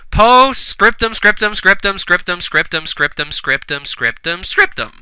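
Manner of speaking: chant-like descent, ending on a high squeak; steadily falling, fading repeated words; mock monotonous repetition. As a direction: let it sink and fade, then pop up high. Mocks repeated text in fanfic.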